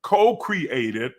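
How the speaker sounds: rising, emphatic preaching cadence. Acted. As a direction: preach it with building conviction.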